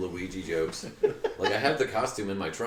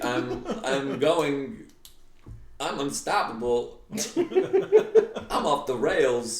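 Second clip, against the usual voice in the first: hyper; 3 semitones higher, much slower than usual. Pretend. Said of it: "the cocaine is kicking in".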